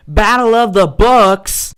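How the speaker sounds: loud, slow thrilled yell; excited shout. Acted. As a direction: bellow it with joy. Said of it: "repeated building to shout".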